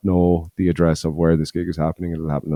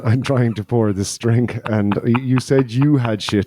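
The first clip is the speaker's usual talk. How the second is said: mock indignant; 5 semitones higher, 3 dB louder than usual. Real, not acted. Mock complaint while pouring drink.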